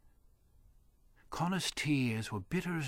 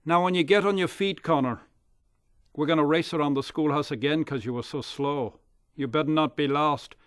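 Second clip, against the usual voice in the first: bully taunt; 6 dB louder than usual. Acted. Dirk taunts after shove.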